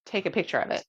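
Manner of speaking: hiccuping mid-sentence; speaking through the hiccups. Real, not acted. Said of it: "Excuse me, hiccups".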